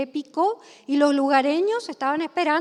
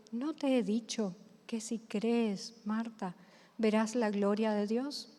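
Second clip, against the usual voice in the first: soft, loving, patient reminder; Jesús gently reminding Marta, tender and soft; with all his love; 3 semitones lower, 8 dB quieter than usual. A narrator's reading. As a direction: say it tenderly, almost hushed, full of patience. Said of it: "con todo el amor".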